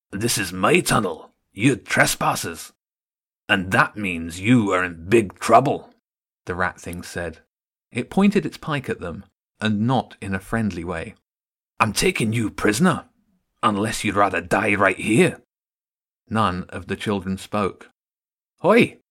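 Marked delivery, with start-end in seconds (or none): 0.1-15.4 a rat soldier claiming his tunnel; menacing rat guard. Acted. 18.6-19.0 high loud shout; shouted call. Acted. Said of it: "Another voice came from behind".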